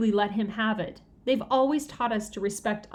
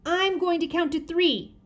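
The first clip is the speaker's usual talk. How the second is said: shouting; 8 semitones higher than usual. A narrator's reading. Sheila threatening the twirling kids, high shout. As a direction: shout the warning. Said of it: "Sheila shouted".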